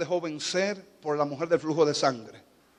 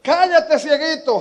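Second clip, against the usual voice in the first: sharp, higher and louder "Cállate, cieguito"; louder hush; 10 semitones higher, 9 dB louder, slower than usual. Retold or imitated. Crowd silencing blind Bartimaeus, louder. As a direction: bark it at him. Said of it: "el que no grita".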